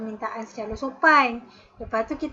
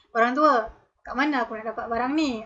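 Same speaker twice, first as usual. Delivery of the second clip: rude address. Shown as a demonstration. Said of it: "lagilah kalau guna orang tua".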